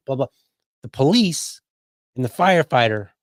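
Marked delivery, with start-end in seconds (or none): none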